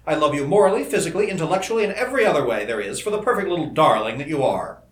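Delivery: impassioned lover's vow; fierce intensity. A narrator's reading. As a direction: pour out love with mounting fervor. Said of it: "he continued with a fierce intensity".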